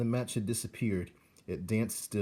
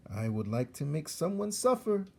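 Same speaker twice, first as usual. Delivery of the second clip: put-on much higher, eager young rat; Roscuro the rat; 7 semitones higher than usual. Young rat tells mentor he wants to torture, eager. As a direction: wish for it hungrily.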